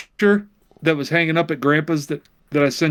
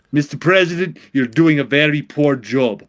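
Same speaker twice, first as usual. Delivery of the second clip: put-on Russian accent. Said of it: "I turned Arnold Russian".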